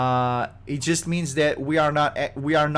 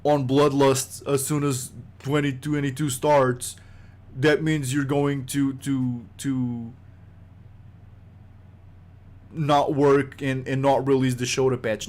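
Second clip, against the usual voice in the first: nerd voice. Retold or imitated. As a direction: drag it out like a smug know-it-all fan. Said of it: "this is my nerd voice".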